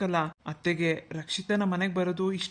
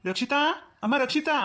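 calling out; 5 semitones higher than usual. Acted. Calling out for Rakshita.

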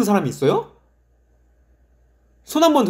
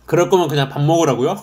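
laughing; 3 semitones lower, faster than usual. Real, not acted. Reading chat, laughing.

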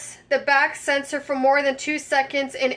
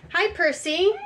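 pet-talk greeting; 4 semitones higher than usual. Pretend. Greeting a toy cat.

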